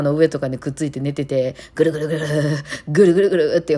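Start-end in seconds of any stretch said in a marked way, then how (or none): 1.7-3.6 mock old-man-like purring; comically overdone purr; imitated cat purr. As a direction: imitate a noisy cat's rumbling purr. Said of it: "おっさんかっていう".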